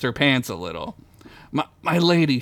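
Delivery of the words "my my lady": stammering. Acted. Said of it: "she stammered".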